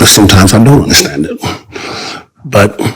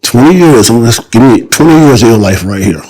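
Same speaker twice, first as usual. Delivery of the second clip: excited pitch; 4 semitones higher than usual. Real, not acted. Excited pitch of his idea.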